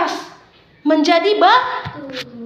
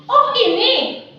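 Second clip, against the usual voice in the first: higher, offhand brushing-off tone; lightly voiced spoiled girl; dismissive girl Darmi; 4 semitones higher than usual. Darmi tells her friend her mother is a maid, offhand.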